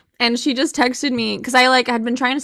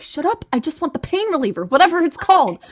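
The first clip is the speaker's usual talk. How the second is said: irritated; 4 semitones higher than usual. Retold or imitated. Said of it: "I'm just like".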